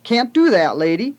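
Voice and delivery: big burly man growling at a lady; growled. A narrator's reading. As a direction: bark it at her like a surly mechanic.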